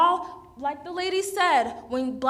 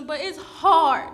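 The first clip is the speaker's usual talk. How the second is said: louder, voice cracking into nervous laughs; real, raw anger spilling over with shaky laughter; getting emotional; 7 dB louder than usual. Real, not acted. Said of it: "I'm sorry for getting emotional".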